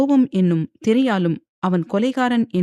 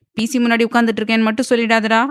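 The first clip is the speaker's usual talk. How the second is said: fast, higher and louder scolding; angry; 4 semitones higher, 4 dB louder, much faster than usual. Acted. Wife angrily scolds her husband over the phone, fast and loud. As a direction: snap at him in a rush. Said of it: "என்று கோபமாக கூறினாள் தீக்ஷண்யா".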